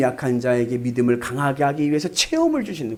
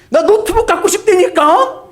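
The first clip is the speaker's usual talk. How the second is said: very high, loud whine; whining son; 8 dB louder than usual. Acted. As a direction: whine like a spoiled kid. (노트북 갖고 싶다고 떼쓰는 목소리)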